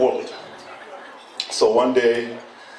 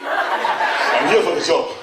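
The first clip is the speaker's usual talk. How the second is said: enthusiastic; slower than usual. Retold or imitated. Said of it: "With the enthusiasm of an African".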